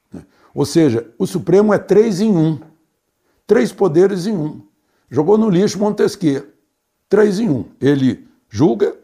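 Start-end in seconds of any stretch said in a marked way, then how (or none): 1.2-7.6 "três em um" hammered higher and louder; emphatic stress. Real, not acted. Commentator denounces the Supreme Court, stressing "três em um". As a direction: pound out "três em um" word by word.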